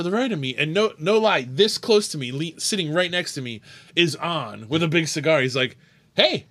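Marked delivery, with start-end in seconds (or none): 6.1-6.5 high, loud mimicked call-out; imitated greeting. Bar owner surprising a customer right beside him, mimicked high call. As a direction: imitate someone calling out, pitched way up.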